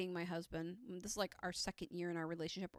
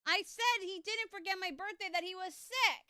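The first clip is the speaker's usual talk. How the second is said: mock indignant; 10 semitones higher, 5 dB louder than usual. Wife pretends to scold husband, mock indignant. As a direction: play at being offended.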